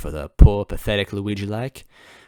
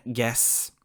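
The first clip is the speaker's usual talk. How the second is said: coughing; 5 dB quieter than usual. Acted. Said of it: "Goombella coughed".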